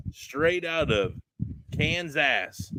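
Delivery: slow, drawn-out Appalachian twang on Kansas. Acted. Host introducing the guests from Kansas in an Appalachian twang. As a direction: stretch it out like a hammed-up Appalachian host. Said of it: "I said it with the twang".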